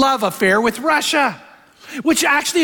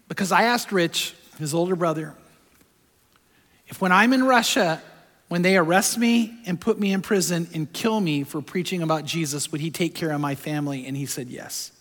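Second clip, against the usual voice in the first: softer, breaking with emotion; choked up; 3 semitones lower, 6 dB quieter than usual. Real, not acted. Pastor reliving his son's words to the congregation, softly moved. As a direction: let it well up as you tell it. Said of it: "Back then I cried".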